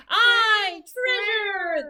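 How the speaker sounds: loud, high shout of treasure; crew shout. A narrator's reading. Crew shouts at the word treasure. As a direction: roar it like a greedy crew. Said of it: "the others shouted".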